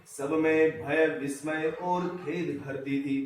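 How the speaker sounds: slow, drawn-out verse reading; poem recitation. Acted. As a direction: recite verse with long, measured syllables. (धीमा, लयबद्ध कविता-पाठ)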